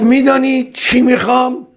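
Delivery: high-pitched testing question; quizzing. Retold or imitated. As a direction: pose the riddle high and pointed. Bohlul quizzes Harun in acted dialogue.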